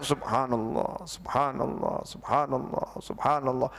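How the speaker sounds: slow, low, soft and drawn out; slow heartfelt dhikr. Shown as a demonstration. Preacher showing how companions truly recited dhikr. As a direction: let each praise sink in. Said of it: "tapi keluar dari lisannya".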